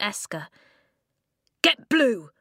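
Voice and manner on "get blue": high, loud shouted order; battle roar. A narrator's reading. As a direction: roar it across the fight. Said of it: "he roared".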